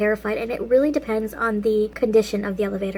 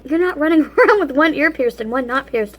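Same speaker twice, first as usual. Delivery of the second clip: mad mom; 3 semitones higher, 4 dB louder than usual. Retold or imitated. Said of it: "she was mad".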